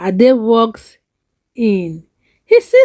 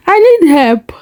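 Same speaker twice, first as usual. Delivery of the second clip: voice shaking; 5 semitones higher, 4 dB louder than usual. Acted. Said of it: "Adewale voice shaking".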